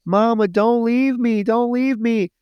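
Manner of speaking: put-on high, pleading girl's cry; imitating a daughter begging in tears; desperate pleading. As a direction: beg her mother not to go, voice up high.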